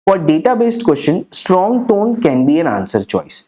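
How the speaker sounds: very slow, each word spelled out for notes; slow dictation. Shown as a demonstration. Teacher dictating the rule to students, very slowly. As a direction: read it out so students can write it down.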